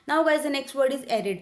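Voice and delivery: very slow, each word spaced out; slow word announcement. Shown as a demonstration. Teacher announcing the next word to students, slow and deliberate. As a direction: announce the new word slowly and clearly.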